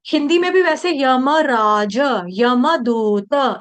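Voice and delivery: यमराज and यमदूत said slowly, the यम run into the next syllable; everyday Hindi yam. Shown as a demonstration. Teacher compares यमराज in everyday Hindi. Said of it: "जैसे हम हिंदी में बोलते हैं".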